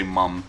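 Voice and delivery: "mom" said as "mum", with a short uh vowel; British-style "mum". Retold or imitated. Remarking on how people say it, "mom" pronounced "mum". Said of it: "when people say mom".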